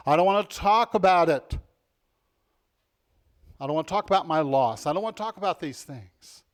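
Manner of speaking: mock refusal. Quoting people who resist.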